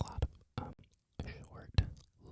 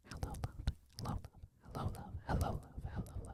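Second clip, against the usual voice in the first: whispered creator greeting; a hint of a gentle role-play greeting; imitating Michaela; faster than usual. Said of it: "And she'll say".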